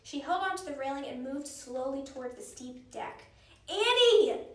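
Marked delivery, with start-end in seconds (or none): 3.7-4.5 high, loud frightened call; crying out. A narrator's reading. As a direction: call after your sister. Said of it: "cried Jack".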